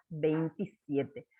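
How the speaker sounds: slow and clear, word by word; teacher dictating at writing speed; slow dictation. Shown as a demonstration. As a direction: dictate the date slowly for children to write. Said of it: "Dos en la decena y siete en la unidad".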